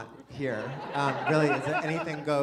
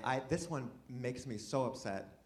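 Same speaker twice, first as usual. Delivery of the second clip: emotional; 7 dB quieter than usual. Real, not acted. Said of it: "get emotional".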